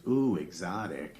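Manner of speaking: impressed lady. Retold or imitated. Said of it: "some lady in the front row goes".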